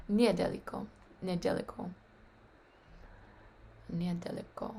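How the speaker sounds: Недалеко mit Betonung auf dem letzten O, langsam vorgesprochen; stress on the final O. Shown as a demonstration. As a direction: das O am Ende von недалеко klar betonen. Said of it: "the emphasis is on the O".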